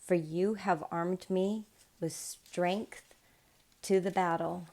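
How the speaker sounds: calm, measured Bible reading; scripture reading. Acted. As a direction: read the psalm steadily and solemnly. Reads a psalm aloud.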